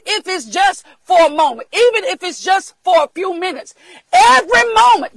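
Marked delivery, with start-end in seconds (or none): 4.1-5.2 preaching shout. Real, not acted. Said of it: "God help me here".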